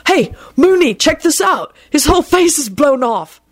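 high, gleeful shout; yelled. Retold or imitated. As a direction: call it out with glee. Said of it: "yelled out".

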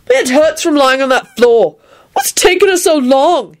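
high-pitched, mild shouted complaint; complaining shout. A narrator's reading. Neville complains from the floor, impatient shout. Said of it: "he shouted".

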